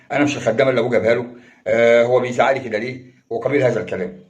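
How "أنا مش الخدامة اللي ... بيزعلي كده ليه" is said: rattled off fast as a mildly resentful wife; lightly voiced complaint, rushed out at speed; wife's inner grumbling. Preacher voicing a wife's resentful inner thoughts, fast mild grumble. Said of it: "تكلمي نفسك في عقلك الباطن".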